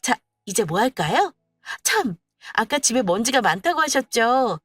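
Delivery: overly sweet, teasing voice; a touch of mock concern; sly daughter-in-law. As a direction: needle her gently.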